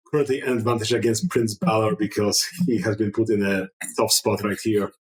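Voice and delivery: ordinary talk, nothing marked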